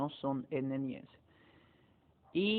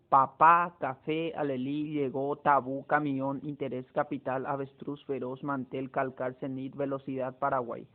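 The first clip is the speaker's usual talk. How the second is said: Papá, café, alelí each stressed on the final syllable, PÁ, FÉ, LÍ; last-syllable stress. Shown as a demonstration. Teacher listing palabras agudas, final syllables stressed from Papá to Paraguay. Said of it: "llevan la mayor fuerza de voz en la última sílaba".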